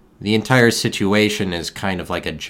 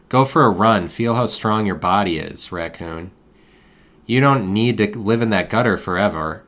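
mock motivational speech; 3 semitones higher than usual. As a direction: pump the raccoon up like a fake fitness coach. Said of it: "I was like".

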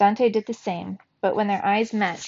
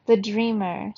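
hollow, distant trance voice; eerie hollow oracle voice; much slower than usual. A narrator's reading. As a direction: speak as if from far away. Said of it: "said in a hollow voice".

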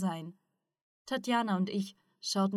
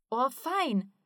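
higher-pitched delighted exclamation; enthusiastic; 5 semitones higher than usual. A narrator's reading. Ruslan hears that any beginner can levitate briefly, delighted. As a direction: let eager delight lift the voice. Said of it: "sagte Ruslan begeistert".

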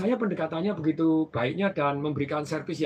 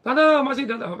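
cheerful greeting; 7 semitones higher, 7 dB louder than usual. Retold or imitated. Greeting the old customer.

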